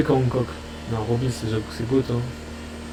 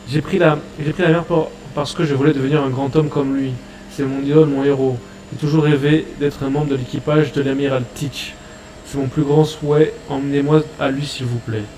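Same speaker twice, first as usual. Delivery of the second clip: a lightly voiced, pleading fanboy pirate; eager pirate pleading. Caribou begging the crew, lightly voiced and eager. Caribou praising his idol.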